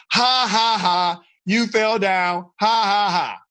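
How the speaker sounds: slow, spelled-out fake ha-ha jeer; mock taunting laugh. Whole school jeering at someone who fell, mock taunting laugh. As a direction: imitate a crowd's mocking laughter. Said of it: "the entire school looked at you and say".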